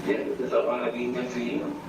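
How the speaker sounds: tipsy, slurred and soft. Real, not acted. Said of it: "You're slurring your words".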